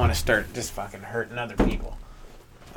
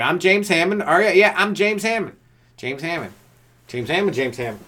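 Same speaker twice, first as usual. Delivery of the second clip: mock self-promotion; 4 semitones higher than usual.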